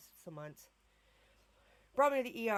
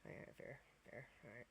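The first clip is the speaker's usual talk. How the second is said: soft, low whispered concession; mock son conceding; 5 semitones lower, 13 dB quieter than usual. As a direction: mumble it like a shrugging kid. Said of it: "he was like".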